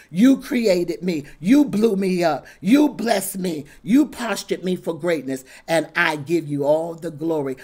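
emphatic testimony in punched phrases; fervent preaching. Acted. Preacher testifying that God made him, fervent praise.

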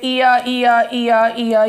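"ईयर" repeated as a vowel-sound demo. Shown as a demonstration. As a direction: chant "ईयर" over and over to show the shared sound. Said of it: "तो repeat हो रहा है". ("ईयर" की दोहराई गई स्वर ध्वनि)

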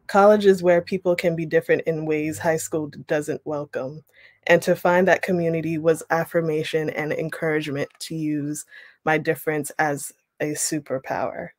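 steady, clear read-aloud of a memoir passage. Acted. Teacher reads memoir passage to class, clear read-aloud voice. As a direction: read the story to the class at an even pace.

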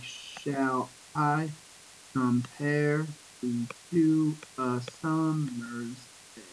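slow, separated syllables. Shown as a demonstration. Teacher counts a poem line's syllables, slow and separated. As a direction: measure out each syllable with small gaps. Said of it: "count the number of syllables".

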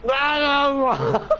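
talking with food in mouth; mouth full. Real, not acted. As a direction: say it through a mouthful. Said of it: "You had food in your mouth".

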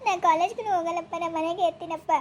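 acted crying, sobs between phrases; whimpering refusal with sobbing breaths; tearful pleading. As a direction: plead through tears like an upset child. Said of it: "ಯಾಕೆ ಅಳ್ಕೊತ ಬಂದಿ?".

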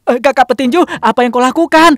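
loud high call out; shouting. Acted. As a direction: shout across to him. Calling out to the boxer.

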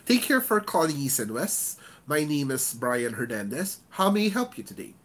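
restrained, unsmiling agent delivery; unsmiling greeting. Shown as a demonstration. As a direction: call greeting without a smile. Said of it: "It's different when you don't smile".

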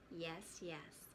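drowsy mother yawning reply. Acted. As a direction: sigh it out half asleep. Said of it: "Mama Bird yawned".

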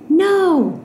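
high, drawn-out no; horrified cry. Acted. Alex seeing the bottle thrown, horrified cry. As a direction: cry out to stop it, pitch leaping up.

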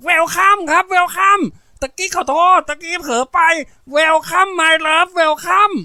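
put-on boy shouting "Welcome" in the corrected syllable order; very high, loud, slow boyish holler of "Welcome"; straining full-force yell. A narrator's reading. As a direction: belt out "Welcome" correctly at full kid volume. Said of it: "นายเปียกกงคอตะเบงเสียงเสียสุดฤทธิ์".

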